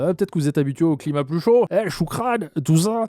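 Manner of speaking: mock German accent, pitch rising toward the end; Toymaker's German accent. Reviewer mimics the villain's racist remark, mock German accent. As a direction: imitate a crude German accent. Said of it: "je vais donner un accent allemand au Toymaker".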